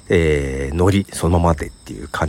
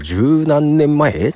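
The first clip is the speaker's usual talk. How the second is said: high, slow, incredulous question; acted surprise; 9 semitones higher, much slower than usual. Podcaster marvelling at a decade-plus gap, acted surprise. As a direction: stretch out the number in mock disbelief. Acts out surprise at years passed.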